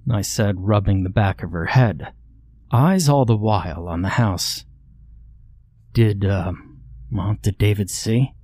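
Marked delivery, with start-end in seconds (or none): 5.9-8.3 calm. Acted. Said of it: "I asked calmly".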